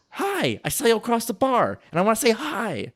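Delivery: like spotting someone across the bar; flirty bar greeting. Shown as a demonstration. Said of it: "That's the tone".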